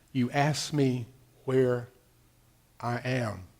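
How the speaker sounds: low, slow, softened voice of God; God's inner voice. Retold or imitated. God answering inside the preacher's soul, low and hushed. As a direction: speak quietly from deep in the soul. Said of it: "it's so deep it has to be God".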